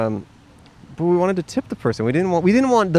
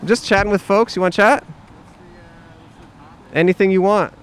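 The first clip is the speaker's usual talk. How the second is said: higher, louder fake-friendly cop; cheesy undercover cop; 6 semitones higher, 4 dB louder than usual. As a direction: lure the skaters in, too chummy. Same cop impression continues.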